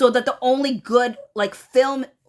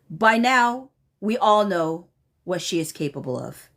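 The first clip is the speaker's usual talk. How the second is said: measured email reading, falling line ends; formal read-aloud; 3 semitones lower than usual. Retold or imitated. Reading an angry email to viewers, measured formal read-aloud. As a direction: read it out deliberately, pausing between phrases.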